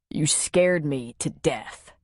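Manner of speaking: slow, low relieved words; tender. Acted. Man comforts woman after kiss, tender.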